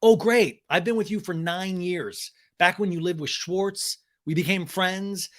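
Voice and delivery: mock exasperated retort. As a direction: lightly act a bitter complaint. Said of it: "Ariana goes".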